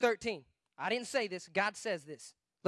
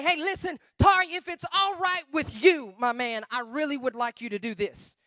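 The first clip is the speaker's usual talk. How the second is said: polite suggestion; 3 dB louder than usual. Acted. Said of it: "Not give us suggestions".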